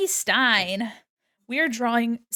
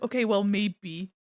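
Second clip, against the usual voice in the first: put-on Valley Girl voice. Shown as a demonstration. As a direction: play up the Valley Girl lilt. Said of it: "when I do it on purpose".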